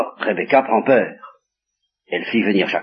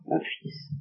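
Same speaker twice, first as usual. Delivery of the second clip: murmure tendre; 6 semitones lower, 14 dB quieter than usual. Acted. Isaac tenderly asks a kiss.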